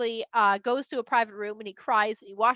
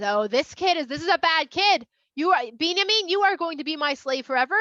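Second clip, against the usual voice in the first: raised storyteller's voice, mock indignation; stern condemnation; 3 semitones higher, 4 dB louder than usual. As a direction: pronounce the verdict as an indignant master. Yosef condemns Binyamin in the story.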